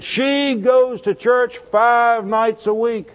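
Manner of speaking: imitating a husband complaining about his wife; slow aggrieved complaint. Preacher retells angry husband's complaint.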